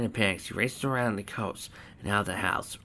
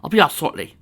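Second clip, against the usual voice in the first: higher, louder reply; raised-voice answer to someone outside; called back; 8 semitones higher, 7 dB louder than usual. Acted. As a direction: call it back through a door. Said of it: "she called back".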